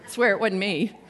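loud, laughing mock denial. Preacher pretending to deny touching Jesus, laughing. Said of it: "I probably would just said".

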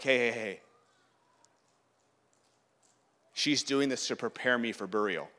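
low, soft calming voice; gentle intervention. Acted. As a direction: quietly step in to defend her. Jesus gently checks the hecklers.

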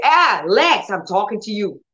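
high, firm call to the legs; commanding the legs. Shown as a demonstration. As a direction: insist that the legs obey.

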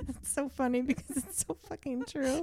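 high, soft, helpless laughing voice; crying with laughter. Real, not acted. Co-host cracking up at the day-job joke, crying with laughter. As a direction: squeak it out through real tears of laughter. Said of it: "I think you're crying".

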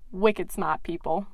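slow, put-on Boston accent; a Boston accent, a bit hammed up. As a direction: drawl it out like a Boston local. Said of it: "as the locals would say".

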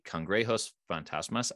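Spanish words said with an American accent. Real, not acted. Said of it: "I apologize for my Spanish pronunciation".

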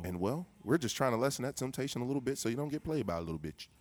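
hard sell ad; commercial voice. Pretend. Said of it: "commercial voice".

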